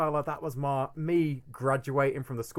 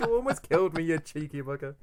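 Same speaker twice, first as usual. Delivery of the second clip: laughing mock cyclist; 2 semitones higher than usual. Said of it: "replying as the cyclist".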